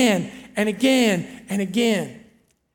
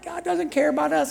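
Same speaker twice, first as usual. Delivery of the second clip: higher-pitched imitated complaint; mock whining; 5 semitones higher, 3 dB quieter than usual. The people complaining to Moses about God, mock whining. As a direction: whine like the grumbling crowd. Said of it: "these people are whining".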